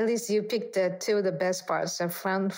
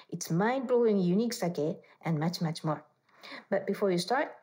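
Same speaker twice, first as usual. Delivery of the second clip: evenly voiced host reading from a script; scripted podcast intro. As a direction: read the show's introduction aloud. Host reads scripted show introduction.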